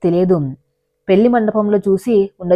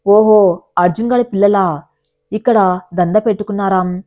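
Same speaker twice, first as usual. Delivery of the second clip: cruel sneer. Acted. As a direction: gloat over the rival's kids with contempt. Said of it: "క్రూరమైన నవ్వు".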